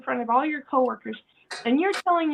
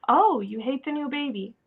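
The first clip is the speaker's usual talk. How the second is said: an understanding "oh", falling at the end; accepting reflection. Acted. Parent reflects child's hate for new baby, accepting. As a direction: mirror the feeling back without judging. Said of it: "rather than questioning or".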